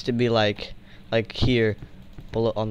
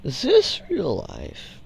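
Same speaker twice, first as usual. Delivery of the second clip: slow, high dazed quote; quoting a video; 7 semitones higher, much slower than usual. Retold or imitated. Quoting a YouTube video to a friend, slow high imitation. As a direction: draw it out high like a viral clip. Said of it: "YouTube reference".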